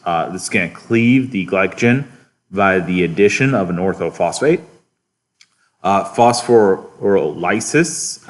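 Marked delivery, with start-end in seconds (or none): 6.1-8.3 phosphorylases drawn out, stressed on LY as "LIE-sis"; careful enunciation. Shown as a demonstration. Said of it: "not to be confused with phosphorylase".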